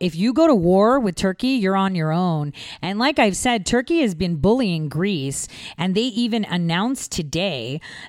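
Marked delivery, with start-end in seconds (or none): none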